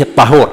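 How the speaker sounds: "الطهور" with an a after the ط; فتح الطاء. Shown as a demonstration. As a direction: say "الطهور" as aṭ-ṭahūr. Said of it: "بفتح الطاء". (نطق "الطهور" بفتح الطاء)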